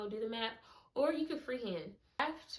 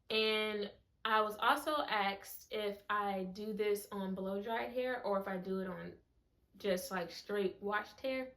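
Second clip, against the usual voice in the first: talking with a retainer. Real, not acted. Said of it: "if I'm talking funny, it's 'cause I have my retainer in".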